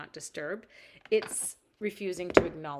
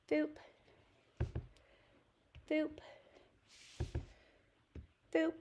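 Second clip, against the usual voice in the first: soft little boops while dabbing; boop sounds; 8 semitones higher, 6 dB quieter than usual. Shown as a demonstration. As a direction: say the boops softly. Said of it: "You have to make that sound as you do it".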